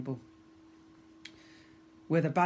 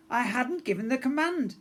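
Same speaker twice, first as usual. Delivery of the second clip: higher, a bit louder impatient explaining; 9 semitones higher, 4 dB louder than usual. A narrator's reading. Pirate girl explaining to her mate, impatient. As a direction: spell it out through patience.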